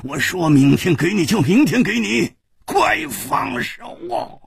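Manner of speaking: high, heated protest; angry. A narrator's reading. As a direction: snap it, then stretch the last demand high. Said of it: "也怒道".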